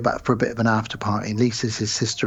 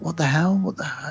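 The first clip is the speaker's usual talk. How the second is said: bewildered; 6 semitones higher than usual. Retold or imitated. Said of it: "he's like".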